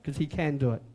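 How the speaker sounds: low, hushed and trusting. Retold or imitated. Preacher voicing a believer who steps out on faith, hushed. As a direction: murmur it like a quiet step of faith. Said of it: "a new way of making decisions".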